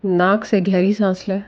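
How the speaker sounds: calm guided meditation voice with long pauses. Acted. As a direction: guide the listener gently into breathing, pausing between phrases. Leads a guided visualization. (शांत निर्देशित ध्यान की आवाज़)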